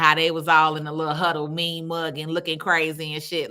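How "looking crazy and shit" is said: ordinary talk, nothing marked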